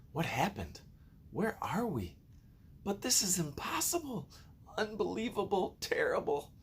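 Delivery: high, frantic cries of alarm; panicked squeal. A narrator's reading. Frightened bug cries out, lost at sea. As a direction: shriek it in disbelief.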